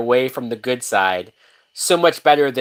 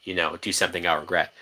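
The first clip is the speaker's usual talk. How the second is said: hushed, softer pleading "don't make me"; soft pleading quote; 6 semitones lower, 8 dB quieter than usual. Retold or imitated. Voicing the heroine begging Wolverine, hushed. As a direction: quietly beg him not to push. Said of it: "so she's asking him".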